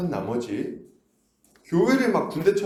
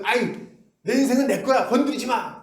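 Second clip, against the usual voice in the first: higher mock whine of a stubborn sibling; defiant sibling; 9 semitones higher than usual. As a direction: push them away, high and petulant. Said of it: "이렇게 해도".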